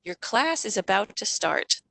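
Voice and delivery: slow, calm, matter-of-fact; just state the fact gently; calm information. Shown as a demonstration. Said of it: "You can try".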